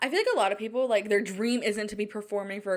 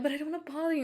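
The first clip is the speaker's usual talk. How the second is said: mock whiny self; 6 semitones higher, 3 dB quieter, much faster than usual. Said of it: "And I'm like".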